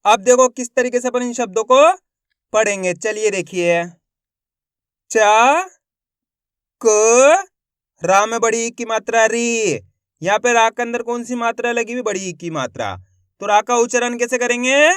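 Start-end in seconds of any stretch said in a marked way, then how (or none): 5.1-9.8 "चा", "क", "री" each held long, apart; name the vowel sign, then stretch "री"; spelled out syllable by syllable. Shown as a demonstration. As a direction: sound out each letter with pauses between. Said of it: "बना बना के पढ़ा जाता है".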